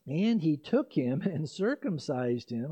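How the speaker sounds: a real chuckle breaks into the scripture reading, slowed; laughing while reading. Real, not acted. Pastor reading Acts to his congregation, laughing. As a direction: laugh your way through the verse. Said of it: "I don't know why I laugh at that".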